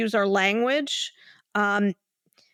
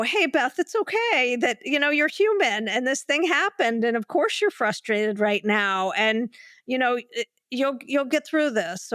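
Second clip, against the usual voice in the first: gentle reassuring self-talk; talking to a good friend. Shown as a demonstration. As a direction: comfort yourself like you would a dear friend. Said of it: "the way you would talk to a good friend".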